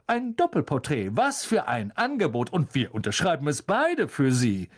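lightly voiced showman, starting high; a hint of self-important delight; jovial pompous celebrity. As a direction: make the offer sound magnificent.

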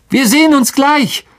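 high, trying to sound sure; forced confidence. A narrator's reading. Harry to Ron as he goes alone: forced confidence. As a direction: sound brave over your fear. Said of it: "so viel Zuversicht in seine zitternde Stimme".

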